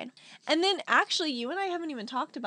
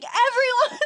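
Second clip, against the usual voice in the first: high, loud announcement to a crowd; mock excited shout; imitated calling out; 11 semitones higher, 10 dB louder, slower than usual. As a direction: call the whole group over. Voicing friend calling out to group.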